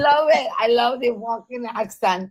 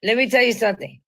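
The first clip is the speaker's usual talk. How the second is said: mock Latina accent; faster than usual. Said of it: "a Latina".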